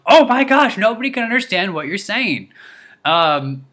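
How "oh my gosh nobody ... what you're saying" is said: high, loud exasperated yell, drawn out at first; imitated yelling. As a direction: mimic a fed-up passenger yelling. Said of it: "he starts yelling at the".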